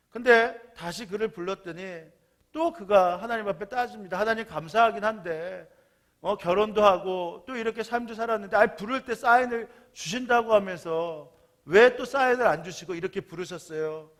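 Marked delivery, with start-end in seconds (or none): 4.2-14.1 complaining. Retold or imitated. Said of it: "하나님 앞에 또 화를 냅니다".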